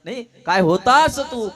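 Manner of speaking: loud, delighted father exclaiming. Shown as a demonstration. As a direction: push होता out with force. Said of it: "आहे की नाही?".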